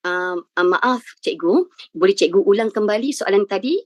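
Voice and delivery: polite, slow, respectful request to the examiner; a student politely asking the teacher to repeat. Shown as a demonstration. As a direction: ask humbly and gently. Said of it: "Contoh, eh".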